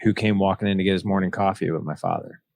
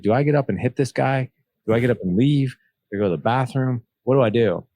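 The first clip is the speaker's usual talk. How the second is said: panicked inner thoughts; 5 semitones higher than usual. Retold or imitated. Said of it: "My heart was racing so fast".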